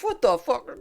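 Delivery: high, loud angry yelling; angry shout. Acted. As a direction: yell it in disbelief. GM voicing angry NPC.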